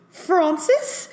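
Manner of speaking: high, wounded cry of a name; mock heartbroken gasp of the name; hurt tone. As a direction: sound utterly betrayed. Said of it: "this most hurt tone possible".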